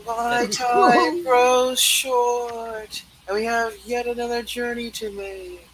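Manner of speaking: ominous spectral pronouncement; solemn ghost. Acted. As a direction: draw out each word like a fading spirit. Ghost announcing departure, solemn.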